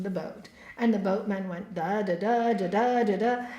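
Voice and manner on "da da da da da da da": imitated stream of criticism in "da da"; mock criticizing chatter. Storyteller mimicking the boatman criticizing Ramakrishna, mock chatter. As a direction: rattle off nonsense syllables as someone's ranting. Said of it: "again criticizing Ramakrishna".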